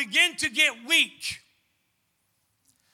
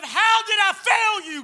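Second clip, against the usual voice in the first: higher and louder, a desperate plea; anguished cry; 6 semitones higher, 3 dB louder than usual. Retold or imitated. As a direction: cry out to God in despair. Woman cries out to God.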